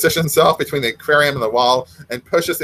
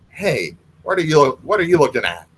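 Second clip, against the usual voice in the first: menacing ogre. Acted. Ogre taunts the fish.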